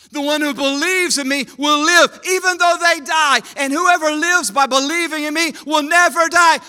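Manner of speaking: shouted proclamation. Shown as a demonstration. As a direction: declare the verse at full voice. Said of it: "I am the resurrection".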